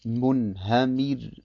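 Munhamir langsam, mit hellem R am Ende; helles Ra. Shown as a demonstration. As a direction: lass das R in Munhamir hell ausklingen. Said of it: "dann wird das Ra hell ausgesprochen". (Munhamir gedehnt, End-R hell)

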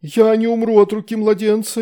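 high howling wail; a demon's high frantic howl. A narrator's reading. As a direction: howl it out in panic. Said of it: "взвыл Амахьед".

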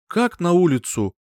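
startled mother asking; alarmed question. A narrator's reading. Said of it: "округлила глаза женщина".

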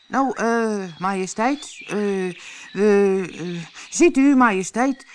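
hesitant, stammering and humble; a servant grovelling before his queen; very submissive. A narrator's reading. Gardener stammers humbly to the angry queen. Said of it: "zei Schoppe twee heel onderdanig".

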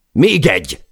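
short, high, loud yell; urgent shout. A narrator's reading. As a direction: yell the update to the crew. Crew yelling during the fall. (sürgető, magas kiáltás)

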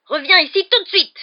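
furious high-pitched bellowed order; hurlement. A narrator's reading. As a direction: yell for the boy to come back at once. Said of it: "hurla-t-il". (ordre hurlé, voix aiguë)

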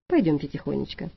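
low, soft peaceable rumble. Acted. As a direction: calmly coax her up, low and soft. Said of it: "миролюбиво прогудел один". (миролюбиво, низко и тихо)

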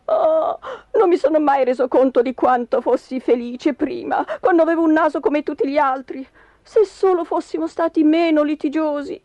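mildly tearful regret; a touch of weepy self-pity; rueful lament. Acted. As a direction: lament what you have lost. Husband laments lost happiness tearfully.

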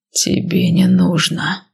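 slow, deliberate and stretched; slow drawn-out words. Acted. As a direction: draw each word out slowly. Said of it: "медленно растягивая слова".

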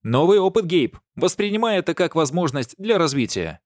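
high, loud mock encouragement; loud teasing pep talk; mock cheerful teasing. A narrator's reading. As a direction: cheer him on with a smirk.

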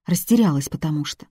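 usual speaking voice

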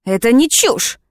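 understated outraged shriek. A narrator's reading. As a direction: squeal it out in outrage. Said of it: "взвизгнул мужчина".

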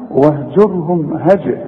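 slow chant stopping on bounced j of هجر; qalqalah on second ج. Shown as a demonstration. Teacher contrasting the second jim, echoing bounce in هجر. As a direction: pop the ج in هجر. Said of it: "إنما الثانية".

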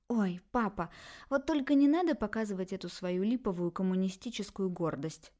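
mild indignant scoff. Acted. Daughter mocks her father's pride, mildly indignant. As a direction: brush off his pride, annoyed. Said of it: "возмутилась блондинка".

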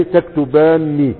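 تكتباني spoken slowly, syllable by syllable, stress on the final ني; slow model pronunciation. Shown as a demonstration. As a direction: draw out تكتباني for the class to repeat. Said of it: "فتقول ايه؟". (نطق بطيء واضح لكلمة تكتباني)

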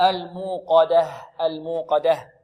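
"الموقدة" ending in an audible h; clear final ha. Shown as a demonstration. Teacher showing the ha at the stop, clear ending. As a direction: sound out the last ha of "الموقدة". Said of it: "لابد من إيضاح الهاء".

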